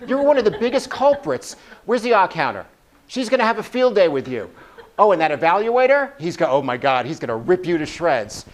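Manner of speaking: a gremlin building up to full alarm; panicky gremlin voice. Acted. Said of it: "the gremlin has a really interesting kind of voice".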